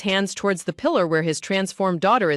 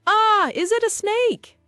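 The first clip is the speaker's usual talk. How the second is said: much higher, slow, a different woman's frightened voice; scream of terror; 13 semitones higher, slower than usual. A narrator's reading. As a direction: gasp it out in slow horror. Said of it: "screams of terror".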